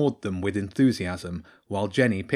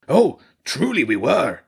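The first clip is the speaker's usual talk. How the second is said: high, loud protesting rat; Zen; 6 semitones higher, 5 dB louder than usual. Acted. Rat assures doubtful girl, high over-sincere voice. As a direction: swear innocence with swooping rat voice.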